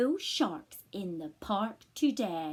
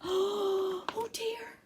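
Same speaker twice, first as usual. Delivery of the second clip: shocked; 11 semitones higher than usual. Acted. Gasp at shark.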